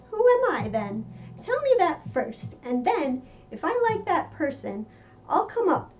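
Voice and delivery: a lightly voiced young Alice making up her mind; girl's determined voice. Narrator voices Alice's resolve.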